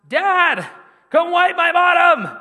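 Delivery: put-on high, loud child's yell from another room; child screaming. Son screaming to dad from the bathroom, high and loud. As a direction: belt it out like a kid calling for help. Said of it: "was screaming from the bathroom".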